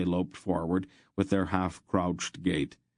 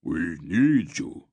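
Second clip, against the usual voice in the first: louder, slow drawn-out shout; Barak's shout; 5 dB louder, much slower than usual. A narrator's reading. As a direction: bellow it from atop a boulder. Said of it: "Barak shouted".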